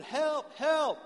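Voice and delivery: high, loud acted yell from a man hanging off a cliff; yelling for help. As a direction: call out urgently, pitch way up. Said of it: "He starts yelling".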